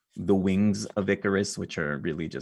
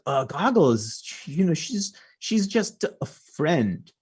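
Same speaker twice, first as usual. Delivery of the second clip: high, squeaky nervous denial; flustered kid voice; 10 semitones higher, 6 dB louder, slower than usual. Acted. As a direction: stammer it out, way up high, caught. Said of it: "and they're like".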